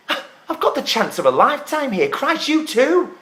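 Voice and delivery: worked-up, accusing argument; indignant protest. Acted. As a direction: argue your case in outraged disbelief. Acted quarrel over the show.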